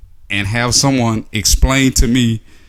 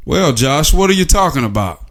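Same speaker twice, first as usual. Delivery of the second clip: lightly acted puzzled listener, pitched higher; questioning listener; 4 semitones higher than usual. Imagined listener asks Josh what he means, mock puzzled. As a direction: pipe up higher as a doubting listener, mildly hammed-up.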